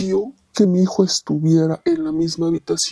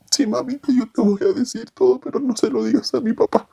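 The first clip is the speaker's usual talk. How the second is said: put-on higher little-boy voice, pleading; child answering; 5 semitones higher than usual. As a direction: promise like a scared child. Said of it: "le dije". (voz de niño, más aguda y suplicante)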